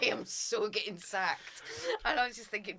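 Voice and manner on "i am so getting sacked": each word drawn out; retold dread, spaced out slowly; slow doomed realisation. Interviewer thinking after embarrassing herself, slow doomed realisation.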